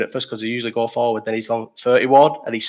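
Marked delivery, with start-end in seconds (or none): 1.8-2.4 called out louder, rising at the end; calling the number. Retold or imitated. Pizza worker calling the order a second time, louder call. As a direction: call the ticket number again across the queue. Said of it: "he's not shouted it a third time".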